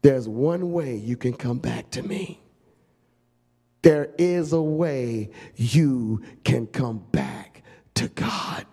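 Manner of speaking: low, slow, fading to a whisper; tender offer. Acted. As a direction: draw them back gently.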